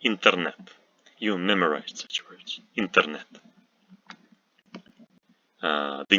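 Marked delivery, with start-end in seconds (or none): 0.0-0.6 Internet with t and n unsoftened; hard consonants. Shown as a demonstration. Teacher giving a word to memorize, hard t and n in Internet. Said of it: "are not softened". 2.8-3.2 Internet with hard t and n; hard consonants. Shown as a demonstration. Teacher repeating for learners, hard t and n in Internet. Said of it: "are not softened".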